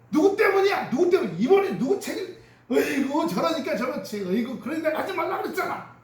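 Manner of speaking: high, loud blaming jabs; quarreling family. Retold or imitated. Quarreling family members blaming each other, loud high nagging. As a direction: nag and blame like a bickering spouse.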